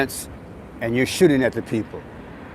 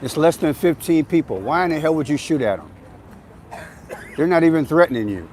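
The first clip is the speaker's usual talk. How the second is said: angry; 3 semitones higher than usual. Real, not acted. Angry at the shooter.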